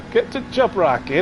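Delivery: lightly hammed-up Terminator; Arnie impression. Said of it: "What does he say?".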